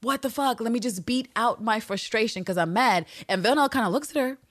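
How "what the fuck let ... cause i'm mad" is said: high, strained furious rant; frustrated venting. Acted. Eve beating out her frustration on the wall, mad. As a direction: let pent-up tension explode, pitched high. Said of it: "she exercises some of that tension".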